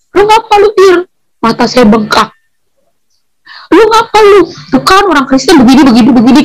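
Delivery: high, sharp scolding; scolding sister. Retold or imitated. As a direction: demand an answer from the sister, high. Sister confronts her on return.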